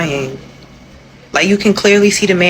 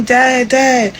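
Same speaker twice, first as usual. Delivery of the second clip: imitated crying child; 5 semitones higher than usual. Kid calling to departing dad, imitated crying. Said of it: "like, crying".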